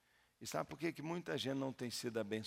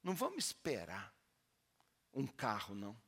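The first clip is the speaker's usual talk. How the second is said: pastor's challenge; 6 semitones higher than usual. Retold or imitated. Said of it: "Eu falei assim".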